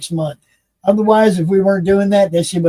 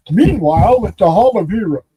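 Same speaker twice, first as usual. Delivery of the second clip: cartoon narrator; 2 semitones higher than usual. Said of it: "From the cartoon".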